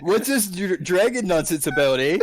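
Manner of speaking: put-on playful Canadian accent, eh; mock Canadian accent. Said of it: "maybe I'll be Canadian".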